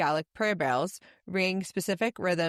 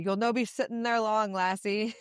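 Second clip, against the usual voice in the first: put-on Scottish accent; 3 semitones higher than usual. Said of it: "I wish I could do a Scottish accent".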